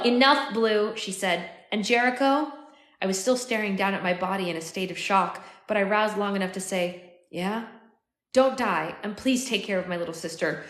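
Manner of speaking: measured, expressive audiobook reading; story narration. A narrator's reading. Narrator telling of finding his dying future self, story narration. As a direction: read it as an unfolding dramatic story.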